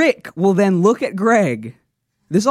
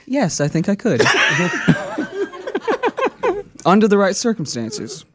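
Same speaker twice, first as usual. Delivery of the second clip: Eagle impression. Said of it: "That was my Eagle impression".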